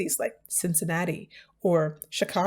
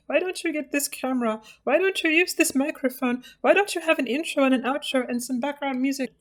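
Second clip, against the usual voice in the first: mock critic; 5 semitones higher than usual. Mocking imagined critics' questions.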